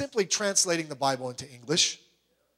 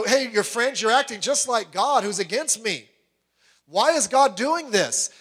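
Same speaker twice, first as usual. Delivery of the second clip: Job complaining; 4 semitones higher than usual. Retold or imitated. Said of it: "he said, you know".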